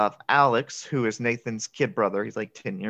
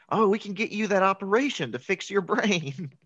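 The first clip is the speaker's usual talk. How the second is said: sincere, touching offer; 7 semitones higher than usual. Acted. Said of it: "he's so sincere about it".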